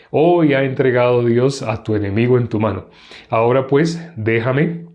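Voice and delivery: measured Bible reading aloud; scripture reading. Acted. Teacher reads David and Abisai's night raid, measured scripture reading. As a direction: read the chapter out evenly, phrase by phrase.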